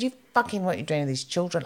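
retold outraged outburst, starting high; going nuts. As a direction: re-enact losing it at the owner. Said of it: "I was just going nuts".

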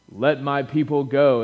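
lightly voiced, slow movie Moses; slow, hammed-up epic film line, only slightly put on; Charlton Heston impression. Preacher mimicking a screen Moses for the congregation, light impression. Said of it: "my best Charles Bronson impersonation".

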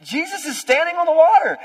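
full-force preached declaration; loud proclamation. Shown as a demonstration. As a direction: shout it to the back row. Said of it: "That's what everyone else is missing".

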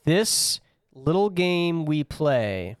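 slow, drawn-out announcer read; draft announcer. Acted. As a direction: announce the pick like a draft host.

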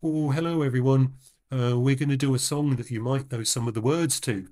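lightly imitating Paul's chatty stage patter; a hint of a bandleader rambling to the crowd; rambling stage intro. Podcast host mimics Paul's rambling intro, mild put-on chattiness. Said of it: "one of his rambling kind of".

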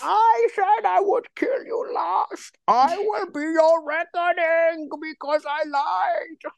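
very high, very slow villain voice; hammed-up strained villain declaiming; big voice. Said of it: "when you're doing the big voice".

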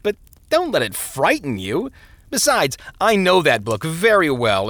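a glib minister talking him out of it; smooth parson voice. Acted.

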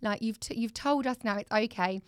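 gentle, lightly softened reassurance; soothing parent. Retold or imitated. Mum comforting her sobbing daughter after confession, gentle reassurance. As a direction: reassure an upset child tenderly. Retelling comforting an upset child.

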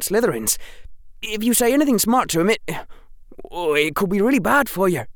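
put-on high, fast, anxious young boy; nervous schoolboy warning, hurried; worried boy voice. Ernie voiced in story.

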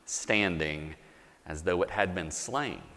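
measured, solemn reading of the passage; sermon scripture reading with slow swells. Acted. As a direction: read it slowly, with reverent weight. Reads scripture aloud to congregation.

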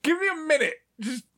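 very high, halting beg for time; acted nervous stalling; mock panicked plea. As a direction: plead in a squeaky, stalling voice. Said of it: "I'm just like".

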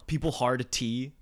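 "hard T" said slowly, with a crisp T; over-enunciated. Shown as a demonstration. Friend pointing out people who hard T, over-enunciated. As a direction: land hard on the T in "hard T". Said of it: "I'm just enunciating more".

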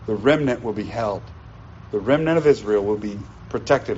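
low, reassuring voice of God; acted-out divine reassurance, pitched low; comforting. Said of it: "the comfort that the Lord issues".

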